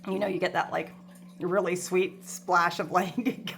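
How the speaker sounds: talking through a mouthful of gum; chewing gum while talking. Real, not acted. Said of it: "I'm chewing gum".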